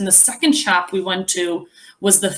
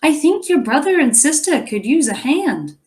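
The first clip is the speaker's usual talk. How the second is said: gentle mother; 6 semitones higher than usual. A narrator's reading. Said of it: "Liam's mom said gently".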